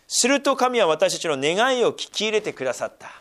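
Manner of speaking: measured, even Bible reading voice; scripture reading. Acted. Pastor reading scripture to the church, steady and measured. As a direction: read the passage aloud to the congregation.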